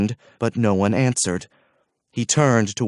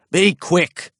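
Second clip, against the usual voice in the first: curt order; 7 semitones higher than usual. A narrator's reading.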